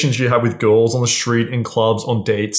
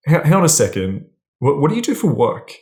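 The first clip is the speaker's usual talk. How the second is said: stammered, suddenly puzzled question; curious, slightly judging; 3 semitones higher than usual. Shown as a demonstration. Man interrupting his date to ask her job, curious and judging. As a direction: stop short, then ask with intrigue. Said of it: "She feels some level of judgment or curiosity".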